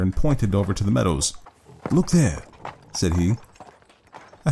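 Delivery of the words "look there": higher, sudden call to look; sudden exclamation. A narrator's reading. Holmes to his companion on spotting the house, sudden exclamation. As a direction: point it out sharply to a companion.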